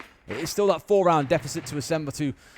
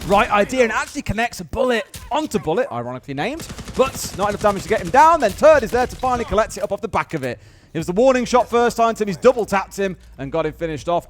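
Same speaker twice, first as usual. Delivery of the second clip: raised, driving esports commentary; live play-by-play; 4 semitones higher, 6 dB louder than usual. Real, not acted. Caster calling a gunfight to viewers, live play-by-play. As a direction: call the action as it unfolds.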